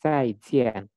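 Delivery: "Zaijian" falling on both syllables; fourth tone. Shown as a demonstration. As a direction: drop firmly on each half of "Zaijian". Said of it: "Jadi dihentakan".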